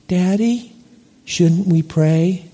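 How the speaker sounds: lightly voiced small child, slow; child's voice. Child in the back seat asking angry father to pray, lightly imitated. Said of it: "a voice from the back seat".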